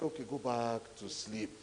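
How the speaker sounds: soft, low murmur, letting her rest; gentle hush. Retold or imitated. Preacher softly telling the drowsy girl to sleep. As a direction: quietly send her back to sleep.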